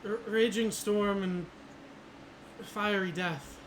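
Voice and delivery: slow, shaky prophecy, a touch scared; trembling voice. Acted. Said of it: "with a bit of a trembling voice".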